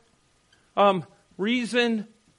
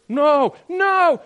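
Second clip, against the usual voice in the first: emphatic no; 9 semitones higher, 8 dB louder than usual. Real, not acted. Preacher objecting emphatically.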